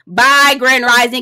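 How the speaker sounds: slow, drawn-out dismissive bye; slow bye again. Pretend. Second slow drawn farewell to Grand Rising. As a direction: say it slow, shooing him off. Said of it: "mock farewell, repeated".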